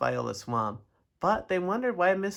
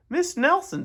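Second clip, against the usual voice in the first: high, loud principal's call; emphatic principal; 13 semitones higher, 6 dB louder than usual. A narrator's reading. Principal addressing the supposed teacher, emphatic. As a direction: summon the teacher in a raised voice.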